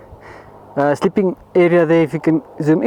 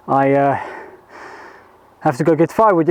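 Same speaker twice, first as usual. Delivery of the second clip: out of breath; 4 semitones lower than usual. Real, not acted. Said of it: "As you can hear, I'm out of breath".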